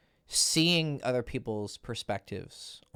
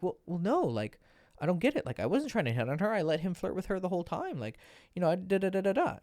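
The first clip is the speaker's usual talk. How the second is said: high, defensive mock whine; high-pitched mock protest; whiny client; 7 semitones higher than usual. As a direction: play the aggrieved guy who just doesn't get it. Client defending himself to coach.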